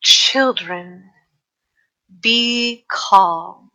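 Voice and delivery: creepy but calming voice; slow, measured words with long pauses, eerily soothing; Inar. Acted. Booming magically round the cave to calm everyone, creepy and calming. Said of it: "creepy, but calming voice he uses".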